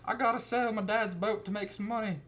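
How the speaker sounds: high-pitched mock teen voice; whiny teenage nephew. Nephew insisting on keeping dad's boat, whiny teen voice. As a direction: plead it up high like a kid.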